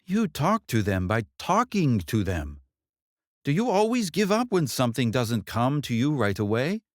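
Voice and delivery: a hint of a wise, insistent mother; mother's voice. Mother lecturing her daughter.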